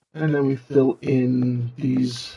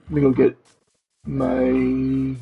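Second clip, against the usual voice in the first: distorted robot demon voice filter. Real, not acted. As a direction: talk through a robot demon voice effect. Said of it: "There's the demon voice for the next ten minutes".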